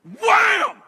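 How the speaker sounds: very high, loud jolt noise; shouted wham. Retold or imitated. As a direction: slam it out like a sudden drop. Imitates turbulence hitting again.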